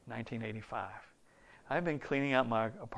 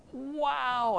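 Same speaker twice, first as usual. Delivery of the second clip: high retold wow of awe; 13 semitones higher than usual. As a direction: breathe out the wonder. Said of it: "and I was like".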